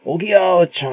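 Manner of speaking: drawn-out mock cheer from the crowd; acted cheering. Market crowd hailing the surviving flagship stock, mock jubilation. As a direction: cheer like rowers rallying, stretching the opening call. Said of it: "열광을 합니다".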